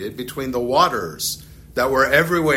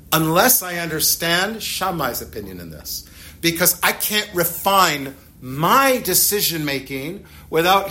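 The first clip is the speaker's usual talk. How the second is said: voicing Hillel; 4 semitones higher than usual. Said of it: "Hillel is basically saying".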